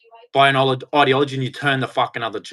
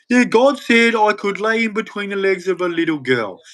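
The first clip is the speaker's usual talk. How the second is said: higher, sneering mock of the excuse; scornful higher mock voice; 5 semitones higher than usual. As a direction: parrot them in a scornful put-on voice. Mocking the other side's excuse.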